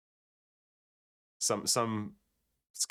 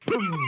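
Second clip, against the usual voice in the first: imitated impact boom; 11 semitones higher, 6 dB louder than usual. Miming the swing in one motion.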